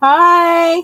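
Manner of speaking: loud, high-pitched shout.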